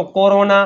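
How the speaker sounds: કોરોના with a hard K at the start; correct K reading. Shown as a demonstration. Teacher reads કોરોના for students, with a hard K. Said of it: "કોઈએ વાંચ્યું ચોરોના અથવા".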